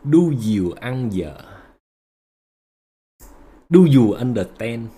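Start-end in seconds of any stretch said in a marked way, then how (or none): 0.0-1.4 slow Vietnamese-accented pidgin English; broken English. Shown as a demonstration. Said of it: "Nói tiếng Anh bồi".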